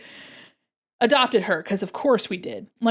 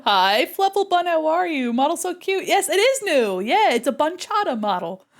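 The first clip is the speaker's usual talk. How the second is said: high, bright squeal of delight; cute greeting; 5 semitones higher than usual. Real, not acted. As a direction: gush over the viewer's model. Greeting a chat viewer.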